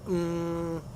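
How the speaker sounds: a thinking hum; hesitation mm. Shown as a demonstration. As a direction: hum as if searching for words. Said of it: "Sometimes we'll go".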